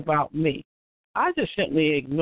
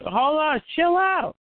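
shrill anger; 8 semitones higher, slower than usual. Real, not acted. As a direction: voice shooting up to stop them. Host halts a shouting match.

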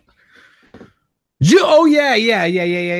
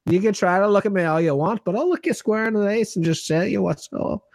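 quick, lilting fake Scottish brogue; hammed-up Scottish or Irish tough talk; mock Scottish accent. Co-host playfully threatens the lad, put-on Scottish accent. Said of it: "We're getting Scottish".

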